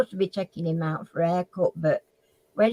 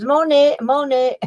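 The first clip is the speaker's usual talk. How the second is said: eager quote; 6 semitones higher, 7 dB louder than usual. Retold or imitated. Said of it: "And she says".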